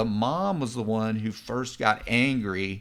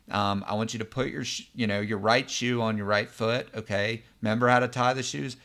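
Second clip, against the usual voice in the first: calm mom. Retold or imitated. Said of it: "calmly says".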